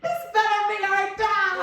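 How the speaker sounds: high, hammed-up scream; retold scream over a windstorm; mock screaming. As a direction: play up a frantic, very high cry. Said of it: "I was screaming, I was like".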